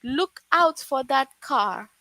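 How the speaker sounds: urgent warning. Shown as a demonstration. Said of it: "showing a strong feeling".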